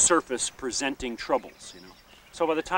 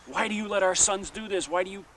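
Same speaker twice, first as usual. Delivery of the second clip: retold scream; 5 semitones higher than usual. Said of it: "they're screaming at these men saying".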